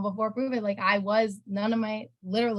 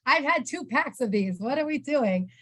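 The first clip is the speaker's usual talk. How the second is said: retold disbelief, pitched higher with a laugh; incredulous disbelief; 5 semitones higher than usual. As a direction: play back your own stunned reaction to the offer. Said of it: "I'm like".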